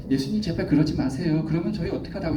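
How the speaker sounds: gently acted plea to a teacher; mild pleading. Acting out Peter begging Jesus. (살짝 애원하는 말투)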